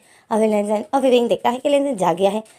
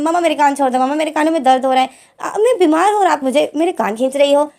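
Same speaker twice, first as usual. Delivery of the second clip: higher, whiny plea to let go; pleading in pain; 5 semitones higher, 3 dB louder than usual. Acted. Lenzen begs mother to release his ear, whiny and higher. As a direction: whine as your ear is twisted.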